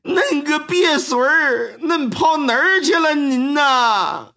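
a beaten father yelling at his son in Henan dialect. Acted. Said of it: "河南话都给整出来了啊！".

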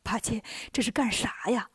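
soft, mild amused query. A narrator's reading. Tang Monk to Bajie rummaging in sleeves, softly amused. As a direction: ask gently, with a touch of amusement. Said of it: "唐僧笑着说".

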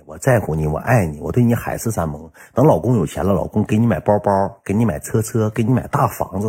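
低声软语哄媳妇; 放软了嗓子甜言蜜语哄她; 哄爱妃. Retold or imitated. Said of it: "糖衣炮弹给他哄了". (低沉轻柔地哄着说)

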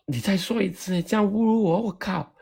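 high, indignant mock outrage; mock-offended friend snapping back; offended retort. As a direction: bristle like you've been insulted.

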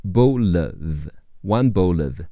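"bowl of" run together, the final L gliding straight into "of"; one bowl of, linked into a single flowing phrase. Shown as a demonstration. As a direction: say "bowl of" as one smooth word with no break. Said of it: "bowl结尾的L和of连起来读".

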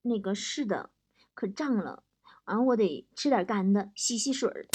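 soft, low, matter-of-fact reply; very unruffled. Acted. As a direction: answer with deadpan composure. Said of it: "王嫂特别淡定地说". (特别淡定地轻声回答)

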